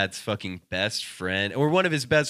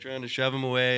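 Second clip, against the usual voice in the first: normal talking voice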